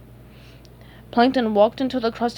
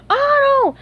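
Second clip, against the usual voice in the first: high startled yell; 8 dB louder than usual. A narrator's reading. SpongeBob and Patrick waking from a nightmare, yelling. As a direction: cry out loudly on waking. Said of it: "woke up yelling".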